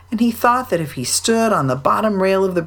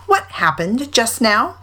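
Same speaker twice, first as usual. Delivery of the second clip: solemn; 6 semitones higher, slower than usual. A narrator's reading. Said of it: "he said solemnly".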